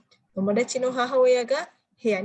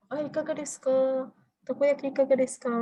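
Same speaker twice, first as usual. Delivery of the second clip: mock stall vendor calling out, higher; festival vendor calling; 4 semitones higher than usual. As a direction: call out takoyaki like a festival seller. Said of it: "Matsuri-Matsuri kan suka ada tuh". (menirukan penjual di festival yang menawarkan takoyaki)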